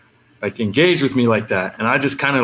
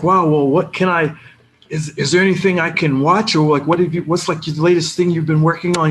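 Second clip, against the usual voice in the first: eager, higher-pitched questions; super excited fan; 6 semitones higher than usual. Retold or imitated. Excited fan asking a star what to watch, super excited. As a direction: gush questions at your idol in a higher voice. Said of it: "I'm, like, super excited".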